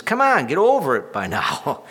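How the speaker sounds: mock impatient push to get over it. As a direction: snap at a griever to move on. Impatient people told to move on.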